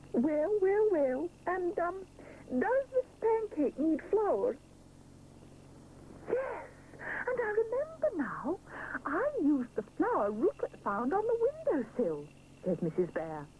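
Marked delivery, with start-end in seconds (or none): 0.1-4.6 higher, slow thinking-aloud chef; musing chef voice. Acted. 6.3-12.3 realizing. Acted. Mother realizing.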